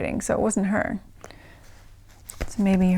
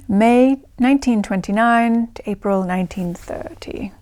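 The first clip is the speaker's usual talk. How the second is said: put-on London RP accent. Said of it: "put on my, my best London received pronunciation accent".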